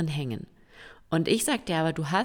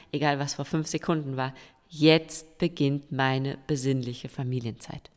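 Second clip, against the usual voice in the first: self-affirmation. Retold or imitated. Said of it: "sag dir selber".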